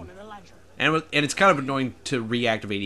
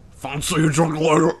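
higher, louder mock Irish accent; put-on Irish accent; 4 semitones higher, 6 dB louder than usual. Streamer voicing a game character's drink invitation, mock Irish accent. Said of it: "you're talking in an Irish accent".

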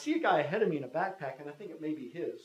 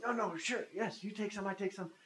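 higher-pitched imitation of a Russian's English; broken-English Russian; 7 semitones higher, 4 dB quieter than usual. Russian stranger insisting they split the money, broken English. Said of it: "in very broken English".

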